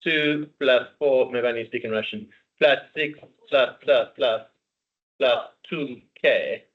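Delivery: slow, hammed-up pretend Russian sums; mock Russian accent. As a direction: count it out in jokey fake Russian. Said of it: "That's not Russian, I don't know what that is".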